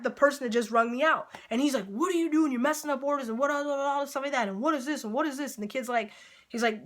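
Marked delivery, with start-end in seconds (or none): 1.9-5.6 higher-pitched imitation of an angry scolding; retold rant, pitched up; mock angry yelling. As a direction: imitate a cook telling someone off, without real volume. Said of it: "comes and starts yelling at".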